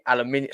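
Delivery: "Aluminium" said deliberately with all five syllables; defiant "Aluminium" the British way; pointed British aluminium. Real, not acted. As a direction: insist on "Aluminium", British stress on "-min-". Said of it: "I'm saying it the right way".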